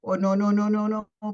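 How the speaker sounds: loud, tumbling panicked "no, no, no"; panicked pleading. Acted. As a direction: beg her to stop in a rush of fear. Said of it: "Me, panicking".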